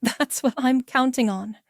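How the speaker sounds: cold smiling delivery; cold smile. Acted. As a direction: smile coldly as you say it. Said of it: "I smile coldly".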